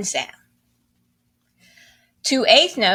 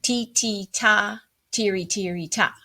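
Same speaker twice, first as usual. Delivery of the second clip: rhythm syllables. Shown as a demonstration. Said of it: "you see that the first measure".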